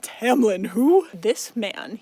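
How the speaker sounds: a staged gasp of outrage at the twist; mock surprise. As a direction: yell it like you can't believe it. Mock outrage at a new man.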